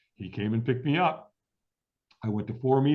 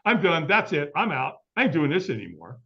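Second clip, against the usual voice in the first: resolute declaration; 5 semitones higher, 3 dB louder than usual. Retold or imitated. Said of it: "I said".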